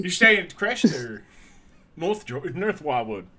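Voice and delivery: Philly local asking about Wildwood; chatty Philly shore voice; Philadelphia accent. Acted. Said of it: "stuck to a Philly accent".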